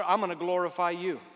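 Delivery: "I'm" leaned on, firm but held back; firm declaration. Acted. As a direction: state it firmly, first time. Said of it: "quoted declaration of praise".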